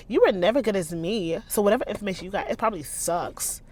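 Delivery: fast, sneering mock reread; mimicking a petty rival; mocking petty quote. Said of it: "She is so petty".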